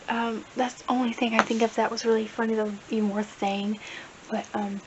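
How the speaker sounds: usual speaking voice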